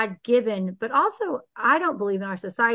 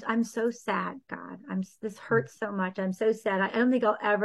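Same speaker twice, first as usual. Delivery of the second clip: sad prayer; 5 dB quieter than usual. Acted. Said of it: "you go through the sadness".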